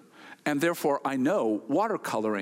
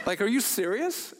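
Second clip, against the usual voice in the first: incredulous; 5 semitones higher than usual. Retold or imitated. Man's incredulous reply.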